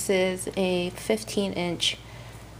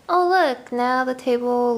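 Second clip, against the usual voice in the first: excited; 5 semitones higher, 4 dB louder than usual. Real, not acted. Pleased at tidied table.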